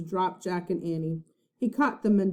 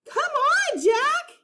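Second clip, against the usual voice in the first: high loud shout; 4 dB louder, slower than usual. A narrator's reading. Annie shouting at Jack to come back, loud shout. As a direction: call him urgently. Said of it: "Annie shouted".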